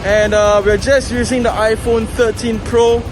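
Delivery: muffled, speaking up through a mask; through a face mask. Real, not acted. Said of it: "I'm also speaking through a mask".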